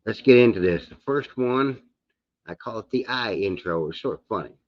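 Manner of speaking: talking without dentures; gummy, toothless speech; no teeth in. Real, not acted. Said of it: "I have not put my teeth in, so I'm gonna sputter".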